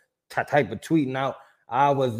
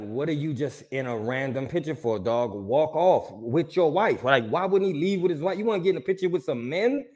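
retold annoyance; 3 semitones higher than usual. Recounting the photo crasher to co-host, retold annoyance. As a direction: grumble it, growing incredulous. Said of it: "I was pissed off".

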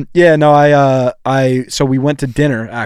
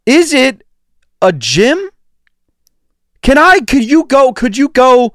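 high, slow teasing voice; mocking high voice; 11 semitones higher, 5 dB louder, slower than usual. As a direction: needle a friend in a silly voice. Teasing about Orange Theory.

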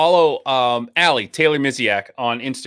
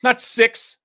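higher-pitched, excitable quoting of a film oddball; movie character impression; 6 semitones higher than usual. Co-host quoting Something About Mary to his partner, higher-pitched film impression. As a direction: rattle off the rhyme in a raised, insistent voice. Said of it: "weird Something About Mary reference".

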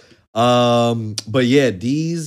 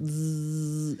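mosquito buzz; 5 semitones higher, 8 dB quieter than usual. Retold or imitated. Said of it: "in my mosquito voice".

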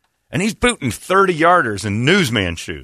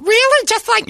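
mock surprise; 5 dB louder than usual. Quoting surprised question.

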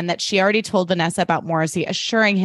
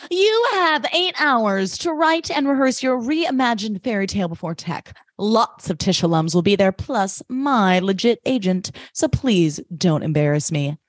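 theater guy on a tear. Retold or imitated. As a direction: imitate an imperious director lecturing the cast. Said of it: "is on a tear".

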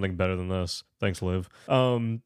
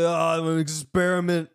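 higher, put-on mock voice; hammed-up Liam Neeson; 5 semitones higher, 3 dB louder than usual. Liam Neeson sitting in the corner, hammed-up imitation. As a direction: do a silly movie-doctor impression. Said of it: "'cause Liam Neeson just sitting there".

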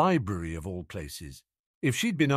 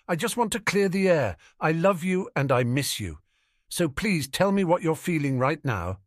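put-on higher, earnest girl's voice; Ginny pleading; 7 semitones higher, 3 dB louder than usual. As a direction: plead with him to open up. Ginny pleading with her brother.

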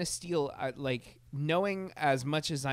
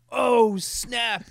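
high, loud oh snap; a hyped audience member; louder, higher hyped-up exclamation; excited oh snap; 8 semitones higher, 9 dB louder than usual. Retold or imitated. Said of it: "is the reaction I want".

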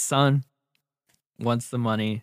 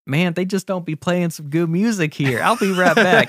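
higher, louder tipsy dad; drunk dad; 6 semitones higher, 4 dB louder than usual. Acted. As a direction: brush it off like a drunk.

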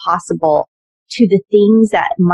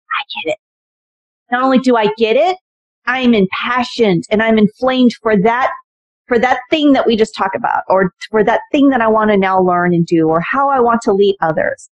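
inspired mentee; 4 semitones higher than usual. Retold or imitated. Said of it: "and they finally go".

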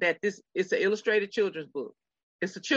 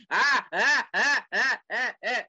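put-on white girl voice; 3 semitones higher, slower than usual. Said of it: "I got my white girl voice on".

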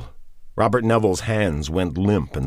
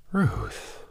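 soft stunned breath of her name; Robert sees the result and whispers, shocked; 5 semitones higher, 6 dB quieter than usual. A narrator's reading. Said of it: "he whispered in a shocked voice".

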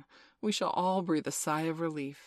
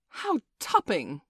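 slow, emphatic, louder exclamation; delighted admiration; 3 semitones higher, 6 dB louder, slower than usual. A narrator's reading. John and Michael watch Peter fly, thrilled. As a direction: marvel at it, drawing the words out.

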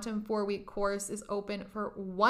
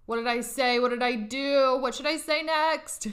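mock panicked overthinking; 2 semitones higher, 3 dB louder than usual. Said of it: "your brain might think".

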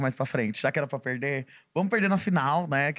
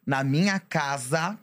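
slow, firm warning to relatives; stern warning; slower than usual. Retold or imitated. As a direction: lay down the law slowly. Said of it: "eu já falava".

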